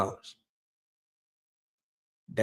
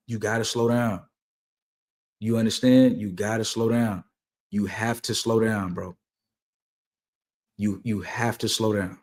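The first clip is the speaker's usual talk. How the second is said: calm advice; 2 semitones lower, 3 dB quieter than usual. Shown as a demonstration. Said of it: "you gotta just be calm".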